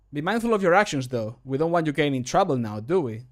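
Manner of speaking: slightly hurried line delivery; too fast. Shown as a demonstration. Voice line warning someone about their actions, a bit rushed. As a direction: rattle off the warning a little fast. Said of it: "I believe I said it too fast".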